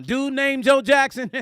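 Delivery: loud, high-pitched disbelief; astonished question. Retold or imitated. Young artist questioning the name he heard, retold astonishment. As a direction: blurt it out, acting incredulous.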